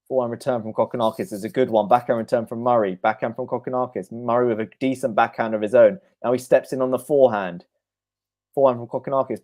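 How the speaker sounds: fast shot-by-shot tennis call; a quick commentator's rally call; live play-by-play. Acted. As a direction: rattle off each stroke as it's hit.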